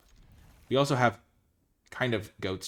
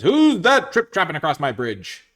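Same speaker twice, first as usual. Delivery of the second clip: loud, higher, booming troll challenge; 6 semitones higher, 11 dB louder than usual. Acted. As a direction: bellow it like a bridge troll. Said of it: "the troll says".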